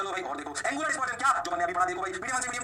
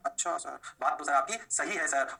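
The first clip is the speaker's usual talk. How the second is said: lightly voiced lower pupil; student agreement; 5 semitones lower than usual. Student telling sir he is right, lightly voiced student agreement.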